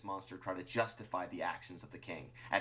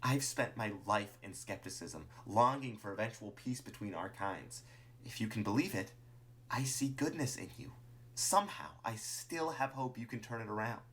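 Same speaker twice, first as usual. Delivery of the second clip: reach out sincerely with lingering hope; hopeful Martlet; 3 semitones higher than usual. Acted. Martlet tells Clover of goodness seen, hopeful and sincere.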